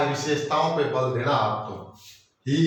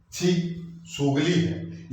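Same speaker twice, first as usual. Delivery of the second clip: drawn-out disgusted छी, slow and higher; 4 semitones higher, much slower than usual. Shown as a demonstration. Teacher acts out disgust for the class. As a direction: spit out छी in slow revulsion. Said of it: "यहां घृणा प्रकट हो रही है".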